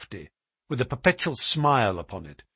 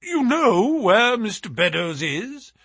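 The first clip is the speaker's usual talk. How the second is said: high, slow, raised exclamation; cried out; 9 semitones higher, 4 dB louder, slower than usual. A narrator's reading. Trevor questioning the sailor about Beddoes, crying out. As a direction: cry it high, drawing it out. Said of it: "cried Trevor".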